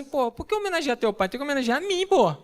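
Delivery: high, indignant mock protest. Husband protesting to his wife about the baby's name, mock indignant. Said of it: "Eu falei assim".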